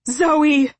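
high, loud desperate call; screamed. A narrator's reading. Father calls his daughter on the hill, screaming. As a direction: scream her name up the hill. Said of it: "he screamed".

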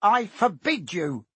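high, loud, desperate order; panicked yell. A narrator's reading. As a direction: shriek the first word, then forbid it slowly. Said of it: "yelled Uncle Vernon in panic".

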